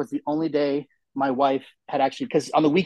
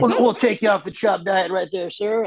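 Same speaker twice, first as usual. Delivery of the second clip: laughing nurse; 5 semitones higher than usual. Retold or imitated. Nurse amused by patient.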